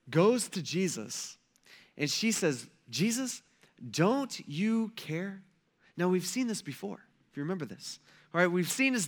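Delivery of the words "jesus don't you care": slow, drawn-out plea, pitch lifted; pleading question. Retold or imitated. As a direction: stretch each word into a hurt appeal. Martha pleads with Jesus.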